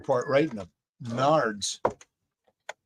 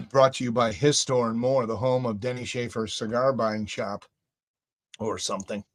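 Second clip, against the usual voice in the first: announcer voice; 3 semitones lower than usual. Acted. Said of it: "Now I have to use my announcer voice".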